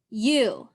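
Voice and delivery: you with the long U stretched; dictated word. Shown as a demonstration. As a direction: read it out clearly. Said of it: "like in the word you".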